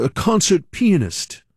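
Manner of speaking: "pianist" as PEE-a-nist, drawn out; odd stress on pianist. Retold or imitated. English teacher unwittingly making students snicker, "pianist" as PEE-a-nist. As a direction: slowly lean on the front of "pianist": PEE-a-nist. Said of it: "we started snickering 'cause he".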